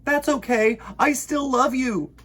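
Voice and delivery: Bear's voice. Acted. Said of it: "said Bear".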